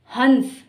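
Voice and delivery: हंस with an audible n before the s; nasal example word. Shown as a demonstration. Teacher introduces the example word, हंस with a nasal n. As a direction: sound the n fully in हंस. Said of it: "जिस पर चंद्र बिंदु लगा हुआ है".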